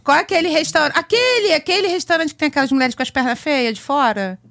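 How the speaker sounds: high, eager questioning voice; quoting husband. Retold or imitated. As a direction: ask it like a curious husband. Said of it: "Aí aquele fala". (marido curioso perguntando)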